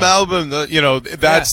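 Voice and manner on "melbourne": Melbourne as "MEL-bum", Australian style; lightly Australian Melbourne, short second syllable; Australian pronunciation. Acted. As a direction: welcome them to Melbourne with the R dropped. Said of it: "with an Australian accent".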